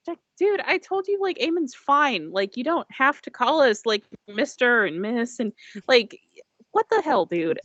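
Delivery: pleading, fed-up dude voice; exasperated attendant. Acted. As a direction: complain to an overly formal coworker. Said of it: "Kinda sighs and he goes".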